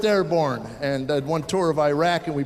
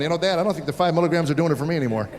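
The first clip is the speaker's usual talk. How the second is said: put-on hooked kid; faster than usual. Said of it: "he'd have been eleven going".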